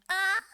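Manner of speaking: pleased high "ah" of delight; contented sigh. Retold or imitated. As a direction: sigh happily over them. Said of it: "so we can just go".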